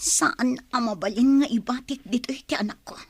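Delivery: hushed pleading whisper; desperate whisper. Acted. Mother begging in a whisper to keep her baby. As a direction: beg softly, terrified of being heard.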